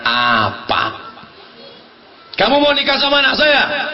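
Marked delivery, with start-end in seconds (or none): 2.3-3.9 a father's voice, pitched up; stern father. Retold or imitated. Old father grilling his daughter's suitor, pitched up. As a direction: play the old-school father questioning.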